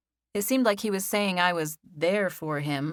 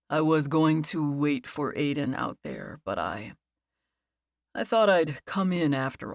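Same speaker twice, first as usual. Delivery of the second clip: calm him down gently; quiet and patient; 3 semitones lower than usual. A narrator's reading. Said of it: "his words came out quietly, patiently".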